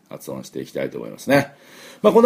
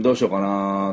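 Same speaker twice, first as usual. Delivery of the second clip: pondering. Acted. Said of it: "悩む時の".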